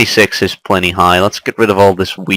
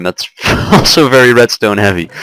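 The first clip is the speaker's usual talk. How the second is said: laughing through the words. Real, not acted. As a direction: chuckle mid-sentence.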